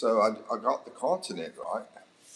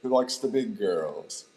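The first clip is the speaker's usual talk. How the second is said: calling out; 4 dB louder, slower than usual. Pretend. Calling out to his viewers.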